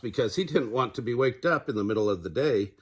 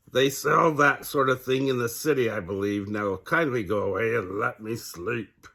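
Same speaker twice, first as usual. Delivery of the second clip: owl voice. Acted. Owl keeps talking.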